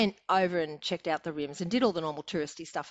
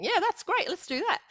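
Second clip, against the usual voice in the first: mock sarcastic husband. Mocking husband's sarcastic reply.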